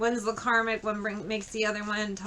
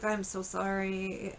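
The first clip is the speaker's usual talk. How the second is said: softer, slow retold apology; subdued, drawn-out words; calmed-down apology; 5 dB quieter, slower than usual. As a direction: lightly imitate a sheepish "so sorry". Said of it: "he calmed down".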